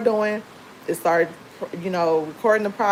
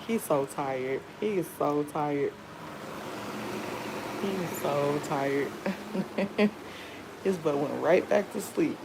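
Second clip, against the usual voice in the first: soft hushed voice, nearly a whisper at first; 7 dB quieter than usual. Real, not acted. Mom talking softly beside her sleeping son, hushed. Baby asleep nearby.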